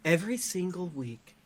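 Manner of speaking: slow, hushed cult leader voice; calm creepy guru pitch, slowly. Acted. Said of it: "turn off your cult leader voice".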